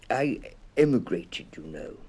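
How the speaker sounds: lightly voiced little bear. A narrator's reading. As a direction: say it like a small proud bear. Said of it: "said the bear".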